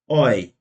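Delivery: isolated "oi" diphthong. Shown as a demonstration. Teacher isolating the EU sound, "oi". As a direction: say a lone "oi" for German EU. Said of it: "E U vai ter som de oi".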